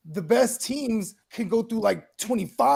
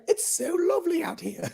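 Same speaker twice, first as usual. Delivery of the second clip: mock delighted settler; 11 semitones higher, 5 dB quieter than usual. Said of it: "it was them going down there like".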